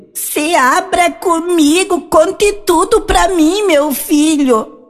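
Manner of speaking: put-on high, slow old hag voice.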